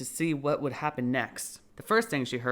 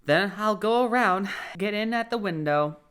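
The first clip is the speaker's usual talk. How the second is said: rabbit muttering plan; 6 semitones higher, 5 dB louder than usual. Acted. Rabbit talks to itself.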